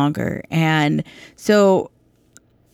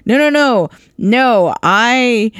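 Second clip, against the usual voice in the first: eager father; 4 semitones higher, slower than usual. Retold or imitated. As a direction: cut off his apology with joy. Father welcomes returning son.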